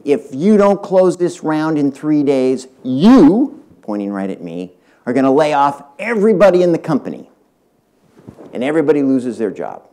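angry co-founder. Retold or imitated. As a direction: throw the blame at him, voice climbing high. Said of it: "got up quite angry and said".

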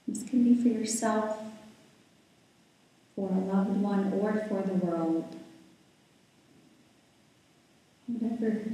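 calm, unhurried guiding voice with long pauses; guided meditation. Real, not acted. Yoga teacher settling the class into breath and body, guided meditation. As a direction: ease listeners into stillness, leaving space between phrases.

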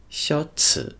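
'xiao ci' whispered, no voice; whispered demo. Shown as a demonstration. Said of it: "我们读呲".

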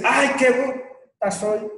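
high, slow mock wail at herself; self-scolding whine. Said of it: "le duele y dice".

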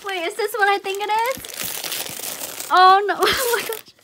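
high, slow disbelief bursting into laughter; stunned delight. Real, not acted. Realizing what the next gift is.

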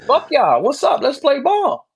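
high, loud hype yelling at the rival; fired-up shouting. Real, not acted. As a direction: scream the challenge across the room. Heated trash talk at opponent.

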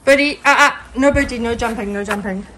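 loud firm call to dog. Real, not acted. Scolding dog on trampoline.

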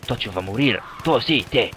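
lightly put-on Don Corleone accent; mock mafia-don accent. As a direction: threaten with a hint of a mafia boss accent. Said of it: "j'adore prendre cet accent".

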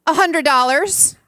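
loud, slow announcement of a price; bold child's price. Retold or imitated. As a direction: state the price proudly and slowly. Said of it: "says to us".

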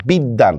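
বিদ্যান as "bid-dan"; doubled d. Shown as a demonstration. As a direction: say the d twice in বিদ্যান, no b. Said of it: "দুইবার উচ্চারণ করতেছি দটাকে".

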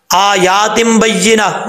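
आयातिम बय्यिना with the या wrongly stretched; a wrong recitation demo; wrong reading. Shown as a demonstration. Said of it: "ये गलत है".

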